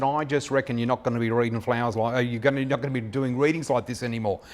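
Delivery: put-on a light Aussie Ocker accent, quick at the end; imitating Ocker Aussie. Client Denise telling him his future, light Ocker Aussie accent. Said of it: "Aussie Ocker accent".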